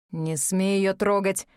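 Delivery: grit out the warning; through gritted teeth. Acted. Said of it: "процедил Аид".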